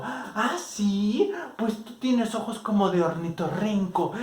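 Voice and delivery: high, loud, slow indignant comeback; childish retort. Retold or imitated. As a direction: hit back with offended disgust. Alma's insult, retold quarrel. (réplica ofendida, aguda y fuerte)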